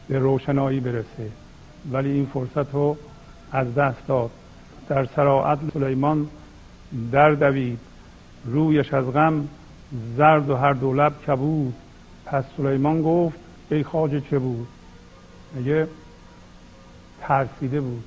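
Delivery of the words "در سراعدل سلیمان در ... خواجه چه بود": measured verse reading with deliberate pauses; poetry recitation. Acted. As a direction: recite the couplets phrase by phrase. (شعرخوانی شمرده با مکث)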